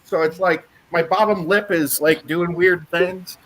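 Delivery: talking with half the face numb after the dentist; numb mouth. Real, not acted. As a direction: lips slack from novocaine. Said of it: "half my face is, is numb".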